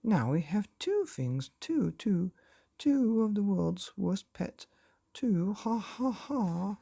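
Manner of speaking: father laughing as if gone mad; manic laughing. A narrator's reading. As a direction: lose your grip as you laugh. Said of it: "think he'd gone bananas".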